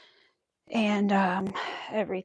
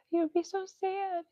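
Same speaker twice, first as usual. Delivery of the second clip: pitying; 10 semitones higher, 8 dB quieter than usual. Real, not acted. High soft pity voice.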